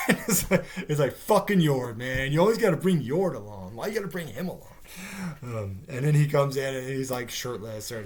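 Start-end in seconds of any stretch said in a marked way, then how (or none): 1.2-4.8 loud, lively griping, lightly acted; acting out a peeved complaint about a tagalong; mock exasperation. Reviewer imitating characters fed up with Yord, mock exasperated.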